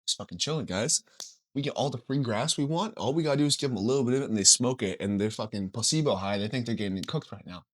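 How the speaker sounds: soft, low acted deer voice; hushed, chilled-out mock conspiracy; laid-back scheming. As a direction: murmur it low to your buddies. Voicing deers talking among themselves.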